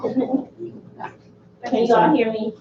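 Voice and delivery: slow, projected teacher voice. Real, not acted. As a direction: address the room like a classroom. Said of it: "I guess I'll just use my teacher voice".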